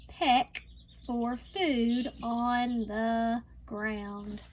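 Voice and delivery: slow, careful read-aloud; reading to a child. Acted. Teacher reading a farm book to a child, slow read-aloud. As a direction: read each word slowly for a young learner.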